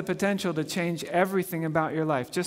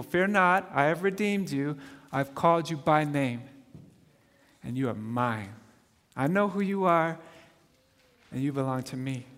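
tender re-reading; 5 semitones lower than usual. Real, not acted. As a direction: whisper the promise to each listener. Rereads the verse softly.

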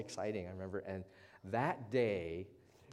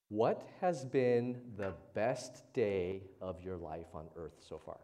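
slow, emphatic question; 2 semitones lower, 5 dB louder, slower than usual. Shown as a demonstration. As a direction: stretch each word out slowly and louder. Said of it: "I have a question for you".

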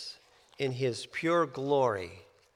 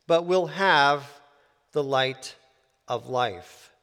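scripture reading; 3 dB louder than usual. Acted.

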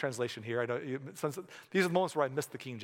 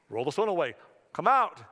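commanding call; 4 dB louder than usual. Retold or imitated. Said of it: "I mean".

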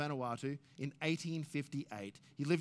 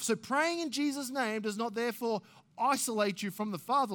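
higher, louder preaching voice, driving each phrase; impassioned pulpit delivery; full-force preaching; 7 semitones higher, 8 dB louder than usual. Acted. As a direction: preach it out to the congregation. Fervent scripture reading and exposition.

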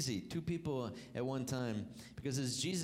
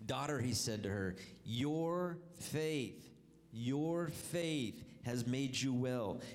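scripture reading; 2 semitones lower than usual. Acted. Reads scripture aloud.

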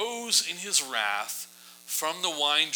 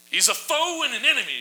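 much higher, louder and fast, all worked up; with emotion; 12 semitones higher, 5 dB louder, faster than usual. Shown as a demonstration. Esther accusing before the king, high and urgent. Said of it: "You kinda gotta read it like that".

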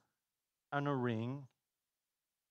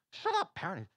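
incensed; 6 semitones higher than usual. Acted. Incensed customer telling off the parrot, mock angry. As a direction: snap at the bird in mock outrage. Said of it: "And the guy's incensed".

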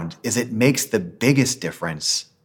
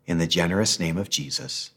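measured prayer in short phrases, long pauses between; slow prayer reading. Real, not acted. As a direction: read the prayer slowly, pausing so others can follow. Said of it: "I'll read it slowly".

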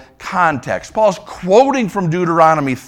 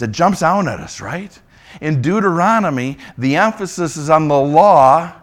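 ordinary delivery

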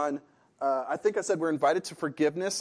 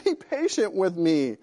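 begging; 3 semitones higher, 4 dB louder than usual. Acted. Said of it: "he begged".

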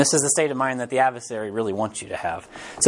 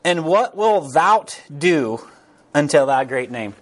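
slow reading; slower than usual. Retold or imitated. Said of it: "this is where it really gets good".

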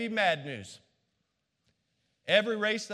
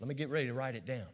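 mock eager note-taker; 9 semitones lower, 8 dB quieter, faster than usual. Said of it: "you're gonna be like".

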